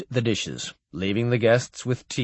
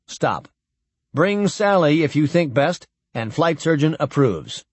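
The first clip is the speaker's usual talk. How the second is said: telegram read; 3 semitones higher than usual. Acted. Narrator reading the admiral's dispatch aloud as a clipped telegram. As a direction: read it like a terse official telegram.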